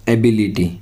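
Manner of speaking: एबिलिटी with "bi" emphasised; stress on B. Shown as a demonstration. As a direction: stress the second syllable, "bi", of एबिलिटी. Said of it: "बी के ऊपर stress देते हैं".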